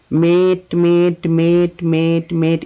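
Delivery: "মেট" repeated evenly, vowel held; repeated pronunciation drill. Shown as a demonstration. Teacher showing pupils how to practise saying "মেট", rhythmic drill. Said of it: "এইভাবে উচ্চারণ করতে".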